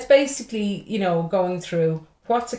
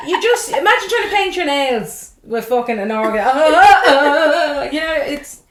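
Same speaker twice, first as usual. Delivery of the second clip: laughing; 7 semitones higher, 8 dB louder than usual. Real, not acted. Laughing through the joke.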